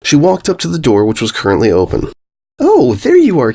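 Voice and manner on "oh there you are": calling out. Acted. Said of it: "called Cheerilee".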